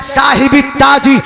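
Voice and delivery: slow, high, ringing sermon cry; fiery preaching. Acted. Preacher rousing congregation about the flag, fiery chant. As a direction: preach it out to the crowd, drawing each phrase. Preacher builds to full force.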